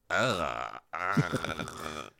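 drawn-out "ugh" of revulsion; mock disgusted throaty groan. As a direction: imitate a grossed-out face as a noise. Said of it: "face could make a sound".

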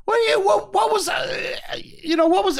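mock a flabbergasted rant; retelling an exasperated blowup at the bar; incredulous outburst. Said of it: "He's like".

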